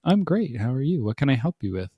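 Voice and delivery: lightly imitated AI helper, starting high; non-human chatbot answer. Chatbot answering a silly user, lightly mimicked non-human voice. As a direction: mimic a chatbot's chipper reply, pitch falling back. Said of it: "Gives me a non-human answer".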